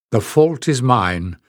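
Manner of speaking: slow, even and calm. Acted. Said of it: "still in that same calm voice".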